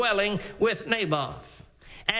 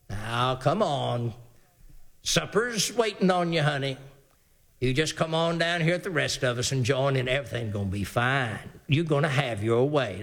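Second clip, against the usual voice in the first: doting coaxing wife; 9 semitones lower than usual. Acted. Wife coaxing her sulking husband to supper, sweetly. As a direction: sweet-talk him down to supper.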